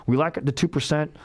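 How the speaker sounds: high mock mobster. Mob bosses warning the feds off Nevada, in a high mocking voice. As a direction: squeak out a mob threat at the feds. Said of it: "the mob is still strong".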